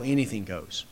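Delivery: a soft sneering mockery of lax teaching; mock dismissive aside. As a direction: toss it off like a careless shrug. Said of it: "what does everyone say?".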